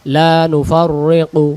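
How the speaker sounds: slow, drawn-out chanted recitation; Quran recitation. Shown as a demonstration. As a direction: recite each phrase slowly with long held vowels. Teacher recites the verse.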